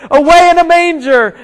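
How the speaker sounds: high, urgent mock shout; acted shouting. Rider grasping for the stop command, high urgent shout. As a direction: shout any words that might work. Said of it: "he starts shouting all the different Christian words".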